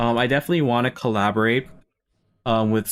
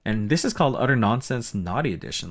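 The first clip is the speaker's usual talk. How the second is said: usual speaking voice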